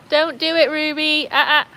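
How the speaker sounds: high, firm telling-off; sharp little no-no; warning a dog. Real, not acted.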